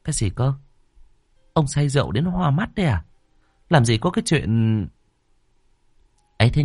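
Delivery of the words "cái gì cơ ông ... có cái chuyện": scornful disbelief. Acted. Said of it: "Cô Thao lợm cả giọng".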